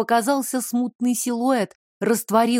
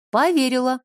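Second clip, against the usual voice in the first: stubborn; 3 semitones higher than usual. Acted. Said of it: "упрямо сказала Елька".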